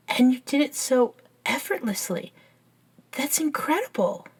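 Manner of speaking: impressed, pitch climbing in wonder; amazed. Acted. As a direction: marvel at an incredible feat. Marvels at friend's great strength.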